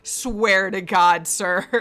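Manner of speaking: slow, drawn-out mock exasperation; imagined exasperated Kim. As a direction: act out a fed-up officer, drawing out the words. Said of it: "and Kim's like".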